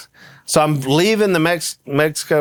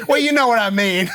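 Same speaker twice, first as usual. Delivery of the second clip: laughing mom quote; 6 semitones higher than usual. Retold or imitated. Mom backpedals, told laughing.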